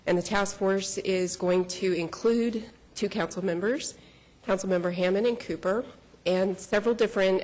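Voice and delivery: breathless from running up the stairs; out of breath. Real, not acted. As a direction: talk while still catching your breath.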